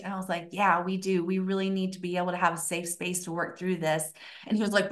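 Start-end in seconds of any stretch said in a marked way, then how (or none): 0.5-4.1 cool, unfazed. Retold or imitated. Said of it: "my coolness".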